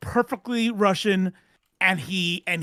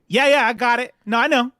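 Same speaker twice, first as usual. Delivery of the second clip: brushing it off; 2 semitones higher, 5 dB louder than usual. Retold or imitated. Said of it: "He's like".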